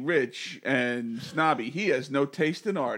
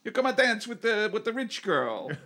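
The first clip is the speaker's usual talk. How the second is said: hammed-up Irish accent, laughing through it; laughing Irish accent inviting friends down; terrible Irish accent; 6 semitones higher than usual. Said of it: "it's a terrible Irish accent".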